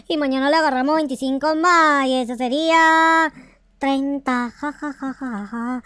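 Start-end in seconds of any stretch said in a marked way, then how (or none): 4.6-5.8 soft laugh. Real, not acted. Laughing at own counting slip.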